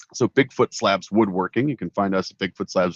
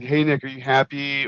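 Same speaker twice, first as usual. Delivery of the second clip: put-on slightly pitched-up kid's question; light touch of childish voice; imitating little girl; 5 semitones higher than usual. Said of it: "she'd like".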